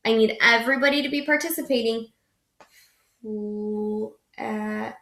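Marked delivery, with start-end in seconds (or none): 3.2-5.0 "L-, at." split by a break; soft sounds with a gap; wrong way with a break; broken blend. Shown as a demonstration. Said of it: "Miss Clark made a mistake again".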